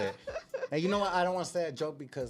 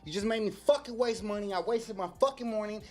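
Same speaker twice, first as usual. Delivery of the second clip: retold angry rant; 5 semitones higher than usual. Retold telling off the thief.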